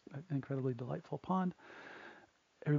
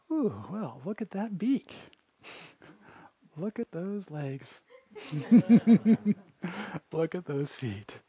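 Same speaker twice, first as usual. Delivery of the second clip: slow, giggling put-downs between laughs; catty wives laughing at the crane; mocking snickers; 4 semitones higher, 6 dB louder, slower than usual. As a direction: tease her looks while laughing. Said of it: "they kind of snip at her".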